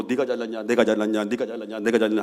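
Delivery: grumbling. Retold or imitated. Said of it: "하다가 가다가".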